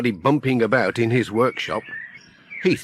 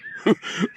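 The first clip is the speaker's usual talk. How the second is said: soft breathy chuckle; 9 semitones higher than usual. Acted. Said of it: "Ted laughed".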